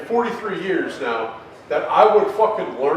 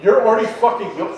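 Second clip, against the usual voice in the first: higher and faster, fed-up complaint; annoyed quote; 3 semitones higher than usual. Retold or imitated. Complaining to a yawning coworker, fed-up and quickening. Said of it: "I'm like".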